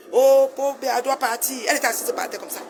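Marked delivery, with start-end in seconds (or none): 0.1-1.5 loud, drawn-out imitation of a slogan; mock protest cry. Mimicking a woman campaigning against the president, loud mock chant. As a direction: mimic a militant calling out, slow and loud.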